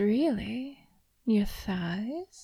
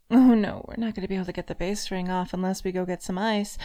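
mock dismay; 3 semitones lower, 4 dB louder, much faster than usual.

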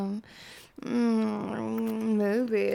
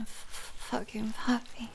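whisper; 6 dB quieter than usual. Acted. Whispered praise during intimacy.

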